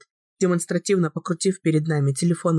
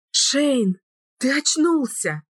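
high, breathless hope; asking as if she can't believe it; hopeful; 9 semitones higher, much slower than usual. A narrator's reading. Woman to her waking lover, hopeful and high. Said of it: "с надеждой спросила я".

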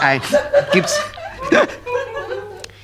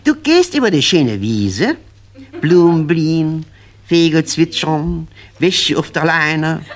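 dreamy storytelling; slower than usual. Acted. Idyllic scene painted slowly.

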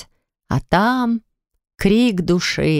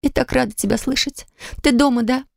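higher, tearful woman's voice; crying openly; 6 semitones higher than usual. A narrator's reading. Polina crying to Max on the phone, higher and tearful. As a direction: speak through tears of relief. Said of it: "она уже не стесняясь плакала".

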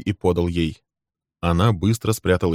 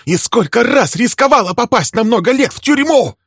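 high, loud, raging accusations; much higher, louder screaming rant; furious tirade; 11 semitones higher, 6 dB louder than usual. Acted. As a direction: unload years of grievance at him. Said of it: "Её глаза метали молнии".

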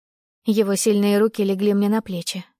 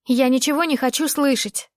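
angry; 5 semitones higher than usual. Acted. Heated quarrel, heroine.

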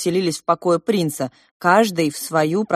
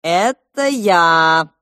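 calling out; 3 semitones higher, 6 dB louder, much slower than usual. A narrator's reading. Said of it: "закричал за дверью младший принц".

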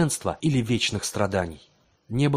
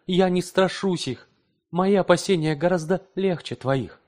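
wife's reproach; 9 semitones higher, 4 dB louder than usual. A narrator's reading. Wife's high voiced reproach.

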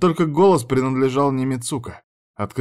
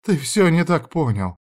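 lamenting; 7 semitones higher than usual. A narrator's reading. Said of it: "вновь запричитала рыжая".

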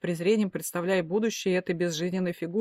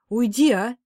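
louder frowning order; irritated order; 4 semitones higher, 6 dB louder, slower than usual. A narrator's reading. Mother sending father out, cross. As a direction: shoo him off crossly. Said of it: "нахмурилась она".

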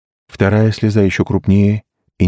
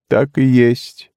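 slow, higher exclaimed «Так и есть»; exclaiming; 7 semitones higher, much slower than usual. A narrator's reading. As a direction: declare it firmly and slowly. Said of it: "воскликнул Дун".

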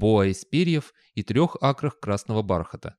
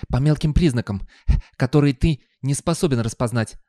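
lightly voiced dog, louder; snooty talking dog; 3 semitones higher, 5 dB louder than usual. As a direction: snub the listener as a know-all dog. Talking dog snubs the hero.

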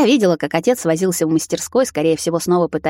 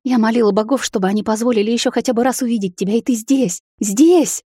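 overjoyed rising; 5 semitones higher than usual. A narrator's reading. Mother thanking the gods, building to joyful cry. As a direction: pour it out, rising to joyous tears.

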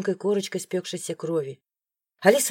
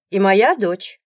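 loud demand; 2 semitones higher, 8 dB louder, slower than usual. Acted. Alisa demands daughter.

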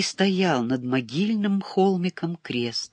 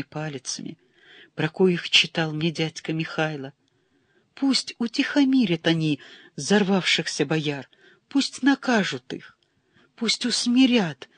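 trembling emotional prayer; 3 semitones higher than usual. Acted. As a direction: beg the saint, voice rising in despair. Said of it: "зашептал дрожащим от волнения голосом".

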